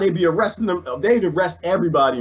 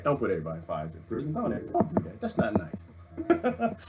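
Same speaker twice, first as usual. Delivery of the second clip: mock gentle scolding; 4 semitones lower, 8 dB quieter than usual. Mock scolding himself softly.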